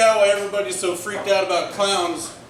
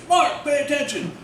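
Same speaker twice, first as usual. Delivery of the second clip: mock teacher yell; 6 semitones higher than usual. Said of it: "My teachers".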